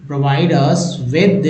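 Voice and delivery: "provide us with" बहुत धीमे; slow demo phrase. Shown as a demonstration. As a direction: stretch out "provide us with". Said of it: "प्रोवाइड". (धीमे पढ़कर "provide us with")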